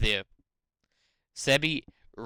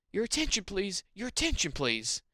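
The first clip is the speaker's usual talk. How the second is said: announcer voice; 5 semitones higher than usual. Acted. Reading a PA announcement.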